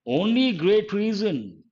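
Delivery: slow, testing how it sounds; drawn-out trial phrase; slow trial reading. Shown as a demonstration. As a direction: read it out slowly to test the fit. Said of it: "That doesn't sound right".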